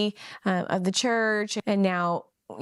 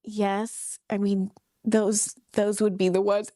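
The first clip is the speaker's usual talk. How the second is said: halting, reluctant admission; struggling, reluctant; slower than usual. Retold or imitated. Bishop admitting to his wife her tights break the rule, reluctant. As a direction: drag it out as if you'd rather not say it. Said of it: "he's struggling".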